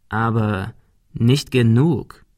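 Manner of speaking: slow, evil understatement; bully slowly and evilly tells the girl it is not enough. Acted. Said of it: "Er klang böse".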